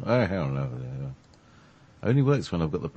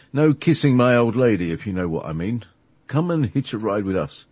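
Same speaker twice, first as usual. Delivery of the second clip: put-on hippie American accent; 2 semitones higher than usual. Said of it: "with a great accent like this".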